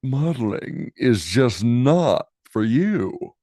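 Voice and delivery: slow, deliberate brush-off; dismissive judges. Acted. Search judges turning Poppy away, slow and dismissive. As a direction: spell out the rejection slowly. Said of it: "said the people in charge".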